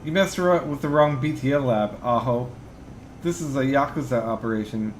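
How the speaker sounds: calm, digitized robotic voice; bitcrushed. Acted. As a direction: speak calmly through a bitcrusher. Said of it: "speaks with a heavily digitized voice".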